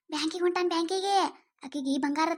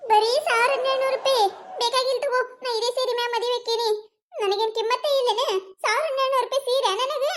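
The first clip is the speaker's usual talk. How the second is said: indignant, raised and sharp; huffy outburst; 5 semitones higher than usual. Acted. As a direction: scoff at the cheap offer in a sulk. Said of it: "ಈ ಎದಕ್ ಸಿಟ್ಟಕ್ಕಿ ನೀನ?".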